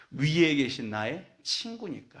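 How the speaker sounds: slow, tender reading of the words; a touch of hushed awe; savoring the hymn line. Shown as a demonstration. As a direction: linger on 위에 as if treasuring it. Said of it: "참 표현을 어떻게 이렇게 했을까요?".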